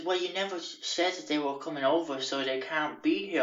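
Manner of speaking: lightly voiced fussy landlord. Voicing landlord Justin.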